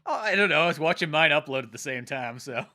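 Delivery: robotic voice. Real, not acted. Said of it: "No wonder you sound robotic".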